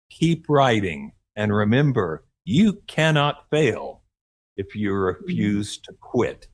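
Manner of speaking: slow, deliberate sign-off with weighted pauses; personal mantra. Acted. Podcast host signing off to writers, slow, emphatic mantra. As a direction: deliver it slowly, like a motto to live by. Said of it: "It's like my mantra".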